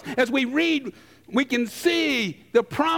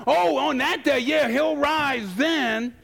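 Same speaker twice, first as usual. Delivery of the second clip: dismissive shrug; 4 semitones higher, slower than usual. Retold or imitated. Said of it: "That's what Martha's saying".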